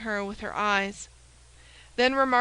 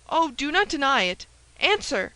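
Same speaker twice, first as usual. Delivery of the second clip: louder, higher insistent command; forceful demand; 4 semitones higher, 5 dB louder than usual. Acted. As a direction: press her hard for an answer. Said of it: "continued Milady".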